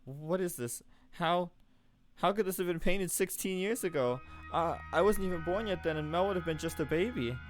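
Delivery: put-on frightened girl questioning the painting; rising panic. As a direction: panic as the truth dawns. Realizes the painting predates her.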